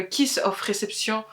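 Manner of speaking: English title in a French accent; a French speaker reading English words. Real, not acted. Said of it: "avec mon accent anglais évidemment".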